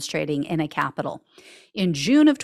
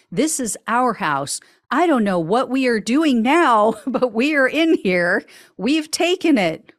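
higher, louder giddy shouting broken by laughs; mock giddy rioter; 6 semitones higher, 4 dB louder than usual. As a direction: imitate her giddy thrill at being inside Congress, laughing. Imitating rioter inside the Capitol.

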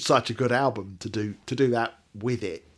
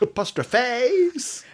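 teasing repeat; 12 semitones higher, 3 dB louder, much slower than usual. Acted. Teasing repeat of pet word.

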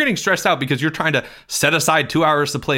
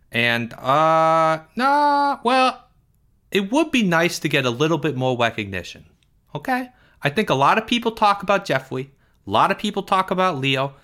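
put-on whiny, higher kid voice with big complaints; Porge; 5 semitones higher than usual. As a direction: play Porge, indignant and put-upon.

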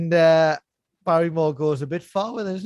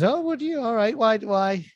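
mock surprise; 5 semitones higher than usual. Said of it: "And he says".

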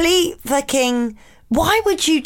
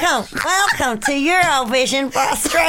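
put-on clumsy Australian-accent presenter; bad Australian accent. Cohost plays Eurovision presenter, bad Australian accent. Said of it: "Okay, Australia".

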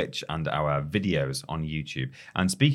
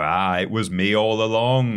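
villain reveal; 4 dB louder than usual. Retold or imitated. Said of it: "but then they go".

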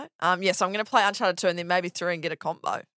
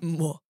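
kiss sound; 3 semitones lower, 5 dB quieter than usual. Shown as a demonstration. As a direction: plant a kiss on the mic. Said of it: "Do it again?".

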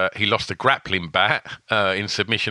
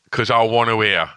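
put-on New York accent; 3 dB louder than usual. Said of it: "That's New York, mate. There's your accent".

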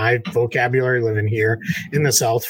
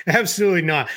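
higher, punchy final no; emphatic refusal; 5 semitones higher, faster than usual. Real, not acted. Podcast host firmly rejecting the overtime brawl idea, emphatic. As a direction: shut it down for good.

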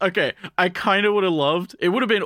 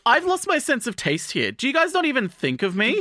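higher, mock self-pitying whine; whiny protagonist; 9 semitones higher than usual. Protagonist complains to the group, higher mock whine. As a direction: pitch up and play the wounded victim. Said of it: "the fact, like".

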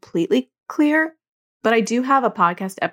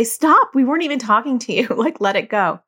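annoyed scolding; 2 semitones higher than usual. Retold or imitated. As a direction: scold the brother who keeps interrupting. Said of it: "getting really annoyed at him".

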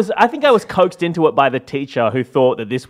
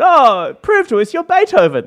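high mock voice; 12 semitones higher, 5 dB louder than usual. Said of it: "they said".

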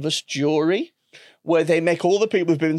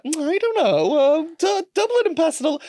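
put-on airy college girl. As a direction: play a disinterested student. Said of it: "college girl that's like".

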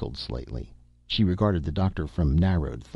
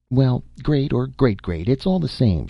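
good-humored; 7 semitones higher, 3 dB louder than usual. A narrator's reading. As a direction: wave it off with easy humor. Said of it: "she conceded good-humoredly".

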